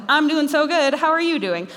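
self-satisfied churchgoer with a Southern twang. Acted. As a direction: put on a sanctimonious Southern lilt. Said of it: "a holier than thou".

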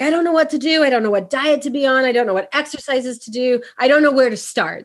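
starts high, piling up the worries; lightly acted stressed-out helplessness; overwhelmed, stressed-out clients. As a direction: imitate a flustered client listing worries. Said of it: "They're so overwhelmed and stressed out".

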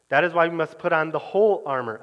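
preacher weighting "whole" above the rest of the line; stress on whole. Shown as a demonstration. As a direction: lean hard on the word "whole", a falling peak. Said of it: "emphasis on the word whole".

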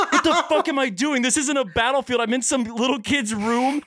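a rising, worked-up realization; retold panic. Storyteller realizing he hurt a little kid, mock panic.

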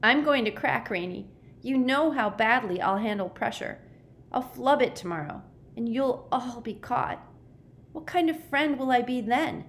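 high, miserable fretting; a boy's high-voiced despair. A narrator's reading. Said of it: "Sticky said miserably".

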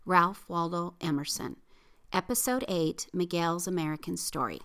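a polished announcer read of the show opener; podcast intro read. Acted. Host opening the episode for listeners, announcer read. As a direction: present the episode like a program host.

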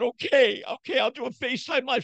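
high, fast placating okay; high mock surrender; meek okay. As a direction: give in quickly to calm her. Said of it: "I said".

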